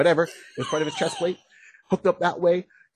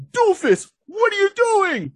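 exasperated scolding; 5 dB louder, slower than usual. Retold or imitated. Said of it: "the two of them are like".

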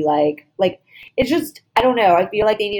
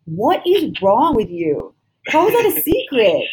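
slow, drawn-out disbelief; exasperated. Real, not acted. Host ranting at a reality star, slow exasperation. Exasperated rant at cast member.

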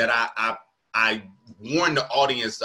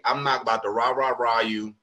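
lower, understated normal tone; easygoing mock stage delivery; calm stage demeanor; 3 semitones lower, 3 dB quieter than usual. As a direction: lightly imitate a calm, unhurried comic. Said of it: "your demeanor on stage is very calming".

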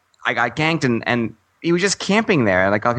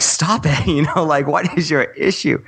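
higher-pitched mock scolding; mock exasperation; 4 semitones higher than usual. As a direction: play at being fed up with barking puppies. Acted scolding of barking puppies.

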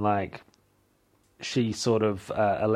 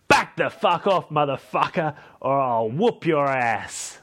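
crazy threat; 4 semitones higher than usual. Retold or imitated. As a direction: bark it like a feisty bridesmaid. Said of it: "super crazy".

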